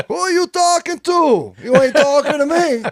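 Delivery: loud, high mock Italian-American tough guy; hammed-up Italian-American accent, half yelling. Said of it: "trying to sound like an Italian".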